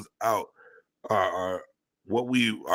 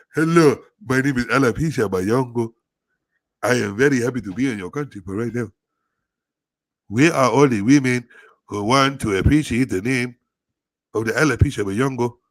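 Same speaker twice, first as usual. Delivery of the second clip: very loud, belted-out put-on Nigerian accent; 4 semitones higher, 8 dB louder than usual. Speaker introduces a character named Alopecia Bayongo; fake Nigerian accent. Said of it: "start with the Nigerian Fox accent".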